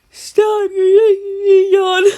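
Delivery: squealing "stop"; high-pitched cry of disbelief; high laughing protest. Real, not acted. Protesting the story.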